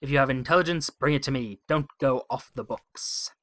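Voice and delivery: loud, firm warning; stern admiral. Acted. Admiral warns the captain, firm and loud. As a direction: bark the order at the captain. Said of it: "the Admiral snaps".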